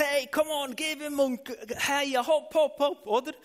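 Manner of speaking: loud high cheer, hopp hopp; cheering on runners. Retold or imitated. Preacher retelling cheering kids at a race, loud excited shout. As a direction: yell encouragement at the racers from the sidelines. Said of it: "habe ich gerufen".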